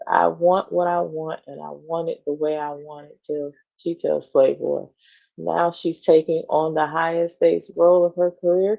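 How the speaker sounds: even, measured magazine read; article read-aloud. Acted. Co-host reading a celebrity profile to the other, measured read-aloud.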